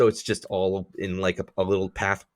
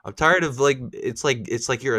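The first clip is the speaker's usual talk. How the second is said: whiny; 4 semitones higher than usual. Acted. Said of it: "I'm gonna sound like a whiny bitch".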